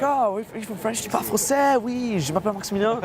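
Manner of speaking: high-pitched, over-keen French small talk; mock eagerness. Man acting out greeting French people, mock eager. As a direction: show off rote French with exaggerated eagerness.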